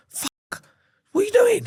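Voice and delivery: hushed curse into high-pitched disbelief; acted shock. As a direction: breathe the swear, then squeak the question. Retold shock at man tied up.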